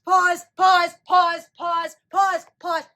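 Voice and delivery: loud urgent calls; urgent shout. Real, not acted. Viewer loudly shouting to pause the movie. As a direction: yell for the pause.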